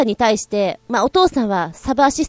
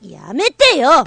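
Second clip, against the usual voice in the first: slow, drawn-out annoyed stop it; angry protest; 4 semitones higher, much slower than usual. Acted. Sister fending off a shove, slow and annoyed. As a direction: stretch the words out to push her away. Sisters shoving each other in skit.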